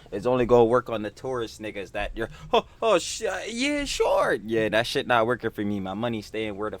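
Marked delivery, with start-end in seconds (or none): 2.5-4.4 sarcastic. Real, not acted. Sarcastic high squeak.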